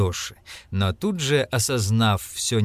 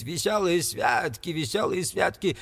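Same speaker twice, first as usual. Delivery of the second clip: mocking; 8 semitones higher than usual. A narrator's reading. Scrooge mimics a merry fool.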